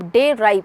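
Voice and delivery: "डेराइव" split into two beats, डे and राइव; syllable by syllable. Shown as a demonstration. Teacher counting syllables for students, "डेराइव" broken in two. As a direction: sound out "डेराइव" as डे, then राइव. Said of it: "इसमें दो syllable हैं".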